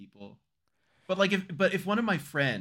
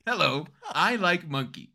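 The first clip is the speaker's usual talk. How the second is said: silly voice; 4 semitones higher, 4 dB louder than usual. Pretend. Silly monkey voice joke.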